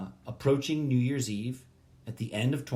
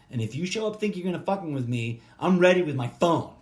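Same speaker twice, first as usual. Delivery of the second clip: mock tough threat; 5 semitones higher, 4 dB louder than usual.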